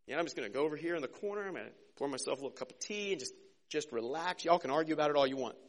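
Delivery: soft, fast, shrugging retreat from an argument; backing out of the fight, softly and quickly; timid disciple voiced softly, hurrying away from conflict; timid Andrew. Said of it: "That's Andrew".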